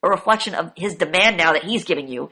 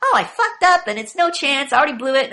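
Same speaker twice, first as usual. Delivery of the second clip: mock whining; 5 semitones higher than usual. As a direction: whine like a quitter. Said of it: "People always go".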